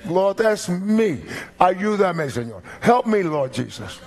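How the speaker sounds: high, slow pleading "Lord, that's me"; demonstrated confession prayer. Shown as a demonstration. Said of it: "that's how you do that".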